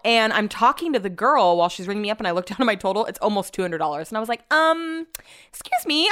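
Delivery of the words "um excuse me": high, hesitant "um, excuse me"; taken aback. Retold or imitated. Shopper questioning the cashier about the total, taken aback. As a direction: politely query it in a raised voice.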